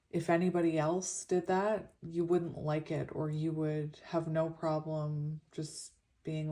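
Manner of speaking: slushy s through a retainer; lisping lightly on the s. Real, not acted. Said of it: "Sorry for the lisp".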